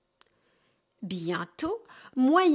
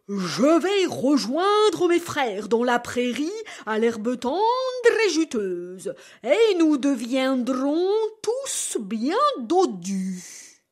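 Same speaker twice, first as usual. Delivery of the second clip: louder, steady, slowing down; calm defiance; big goat voice; 4 dB louder, slower than usual. Acted. Big goat tells the troll his plan, louder and slowing.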